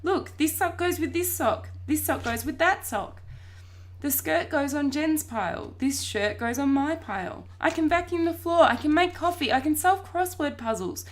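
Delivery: high, excited boasting; frantic insistence. A narrator's reading. Boy sorting washing to prove he's human, frantic insistence. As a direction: build a breathless case, pitched high.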